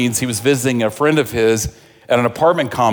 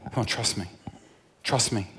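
soft coaxing; 4 semitones lower, 13 dB quieter than usual. Acted. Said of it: "he's going".

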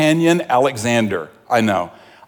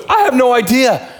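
excited retelling; 8 semitones higher than usual. Retold or imitated. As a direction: tumble the words out in amazed disbelief. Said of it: "He goes".

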